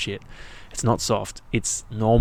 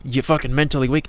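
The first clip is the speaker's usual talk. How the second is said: mocking tough guy; 2 semitones higher than usual. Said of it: "Don't listen to this fucking".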